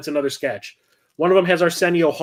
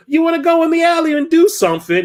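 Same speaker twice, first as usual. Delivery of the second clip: high put-on woman's voice, inviting; hammed-up saucy proposition; mock flirty streetwalker; 13 semitones higher, 4 dB louder than usual. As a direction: lure him into the alley, coyly. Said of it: "she goes".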